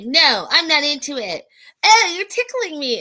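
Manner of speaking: being tickled. Retold or imitated. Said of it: "he's like".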